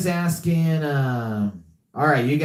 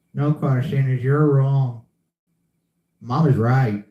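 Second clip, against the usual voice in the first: a lightly voiced Water Boy; doing Bobby Boucher, a touch earnest; Water Boy impression. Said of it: "I did the water boy".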